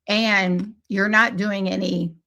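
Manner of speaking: talking while crunching a throat lozenge. Real, not acted. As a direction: crunch a cough drop as you talk. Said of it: "sorry, I'm crunching on my Halls".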